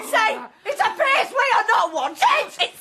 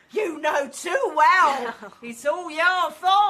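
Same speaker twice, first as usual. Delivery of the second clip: 1 accusing; 3 semitones lower than usual. Acted. Mother accusing son-in-law.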